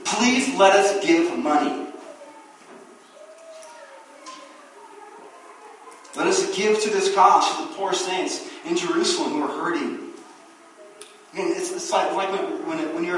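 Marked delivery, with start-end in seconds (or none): 0.0-10.1 believers begging. Retold or imitated. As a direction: beg to give, earnestly. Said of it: "these people were doing".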